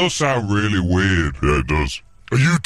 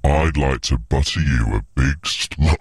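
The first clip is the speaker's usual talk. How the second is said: low, hammed-up seduction; mock sexy voice; 6 semitones lower than usual. Contestant delivering his sexy line, low mock-seductive voice. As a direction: drop it low and play seductive. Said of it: "to hear your sexy voice".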